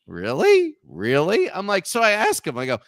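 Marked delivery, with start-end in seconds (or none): 0.1-1.5 re-enacted disbelief, louder questioning; incredulous. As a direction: think it aloud, can't quite believe it. Acted thought on hearing who he is.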